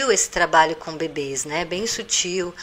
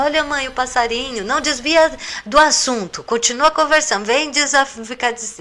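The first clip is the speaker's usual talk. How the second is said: put-on high, louder excited child voice then mum; distracted child and mum; 7 semitones higher, 4 dB louder than usual. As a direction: act a distracted kid spotting a bird. Child distracted, then mother cuts in.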